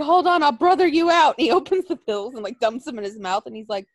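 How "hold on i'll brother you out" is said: mock eager reassurance.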